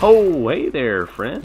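slow, loud, high sing-song hello; mock friendly greeting. Real, not acted. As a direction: greet the enemy sarcastically. Greeting enemy drawn out.

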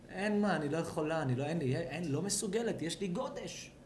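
soft, lightly voiced exhausted mother; mock weary wife. Wife pleading with husband at night, mock weariness. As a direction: mumble excuses like a drained wife.

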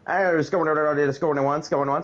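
lightly hammed-up auctioneer. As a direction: rattle it off like an auction. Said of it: "you sound like an auctioneer".

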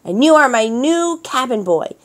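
gruff orders. A narrator's reading. Boss pirate orders Melissa.

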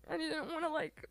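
real tearful, halting confession; crying. Real, not acted. Streamer apologizing for crying over hurtful comments, tearful. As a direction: talk through tears, breaking off. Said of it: "I'm sorry for crying".

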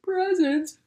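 high, loud astonished question; a sleepy rabbit suddenly thrilled by presents; surprised squeal. Acted. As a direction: leap up on the word in delight.

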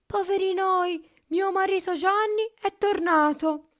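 high, loud cry of dismay; alarmed cry. A narrator's reading. Elisa warns that her husband is back, alarmed high cry. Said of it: "gridò Elisa".

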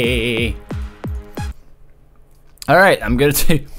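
usual speaking voice

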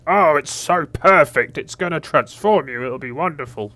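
high, slow, swooning mockery; mocking dreamy voice. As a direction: parody a creepy sweet-talker. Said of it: "You just went".

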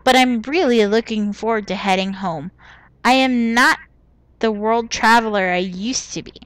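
a light, badly faked Indian accent from Jaipur; half-hearted Indian accent, barely put on; terrible Nishanti accent. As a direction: read the letter in a mild, hammed-up Indian accent. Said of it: "I'm doing a terrible Nishanti accent".

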